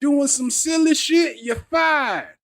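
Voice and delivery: high shouted drill sergeant barking orders. Retold or imitated. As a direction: yell it like a strict drill sergeant. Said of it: "sounds like a goddamn drill sergeant".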